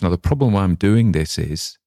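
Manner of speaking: ordinary delivery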